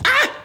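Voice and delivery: sudden high startled yelp. Acted. Brother startled by his sister, sharp high yelp. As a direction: jump at the surprise, short high cry.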